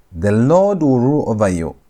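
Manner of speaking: "Lord" carries the weight, the rest trails after it; stress on LORD. Shown as a demonstration. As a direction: lean on "Lord" and draw it out. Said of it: "So the emphasis here is on Yahweh".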